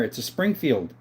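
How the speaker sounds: short of breath; talking while winded. Real, not acted. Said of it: "I'm running out of breath here".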